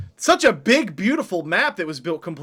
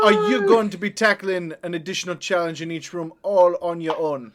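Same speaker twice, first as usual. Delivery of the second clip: in-character British street voice; in-character British query, dropping at the end; accented player character. Acted. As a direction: question a comrade in character.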